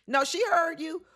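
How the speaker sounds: bursts out laughing, voice jumping up; laughing disbelief. Real, not acted. Host laughing back at the husband, high with disbelief.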